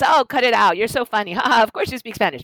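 high, loud, laughing brush-off; laughing disbelief. Retold or imitated. Mother laughs off classmate's claim, high and amused. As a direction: laugh it off as a joke. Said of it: "my mother laughs".

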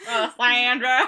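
laughing mock Southern accent; hammed-up Southern American pronunciation. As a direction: say the Italian name like a Southerner. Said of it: "a Southern American accent".

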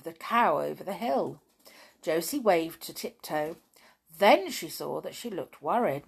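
gentle storybook reading voice; story narration. A narrator's reading. Reader telling the Toyland tale to listeners, storybook narration. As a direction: read it like a bedtime tale.

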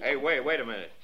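alarmed. Acted. Man stops girl entering house.

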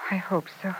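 faint whispered hope. Acted. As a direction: breathe it out in a whisper. Answering on the phone.

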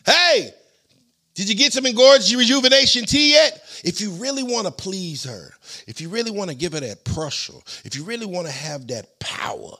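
loud, hyped-up fake commercial pitch; chipper 1950s ad. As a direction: sell it like an old radio ad. Reads a mock sponsor ad.

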